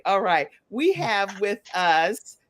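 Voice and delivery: ordinary talk, nothing marked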